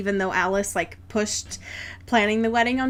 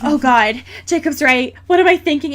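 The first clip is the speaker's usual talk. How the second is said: louder, panicky Edward in a fake crisis; a hammed-up blushing bride's panic, a touch louder; mock crisis; 3 semitones higher, 5 dB louder than usual. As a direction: play a groom losing his nerve, hammed-up. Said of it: "literally having a crisis".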